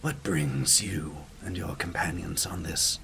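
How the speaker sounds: breathy greeting sinking into a near-whisper; mysterious stranger. Acted. Stranger on the bridge greeting a traveler, mysterious and hushed. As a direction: greet like a cryptic wayfarer, hushed after the first words.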